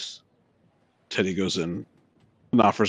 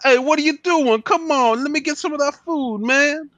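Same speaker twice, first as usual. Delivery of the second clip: higher-pitched, whiny mooch asking for food; lightly voiced hungry stranger; pushy dude voice; 11 semitones higher, 3 dB louder than usual. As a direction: play a needy guy begging for snacks. Player voices a pushy NPC.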